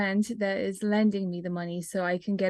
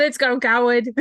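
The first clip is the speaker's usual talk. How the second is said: louder, brisker cheer; insistent repeat; 3 semitones higher, 5 dB louder than usual. Real, not acted. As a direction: repeat your cheer over the other speaker. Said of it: "I said".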